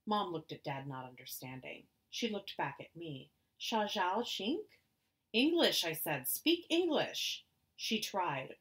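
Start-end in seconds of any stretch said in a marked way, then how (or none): 3.6-4.7 Chinese. Acted. Mother asks in Chinese. 5.3-5.8 loud, snapped demand; sharp raised voice. Acted. Child snaps at mother. 6.3-7.4 loud, high, slow demand; angry demand. Acted. Child demands angrily.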